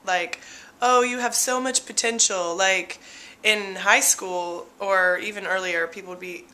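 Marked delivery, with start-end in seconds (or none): 0.8-2.5 condescending praise, mock sweet; patronizing pat on the head; backhanded compliment. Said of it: "it's sort of a backhanded compliment".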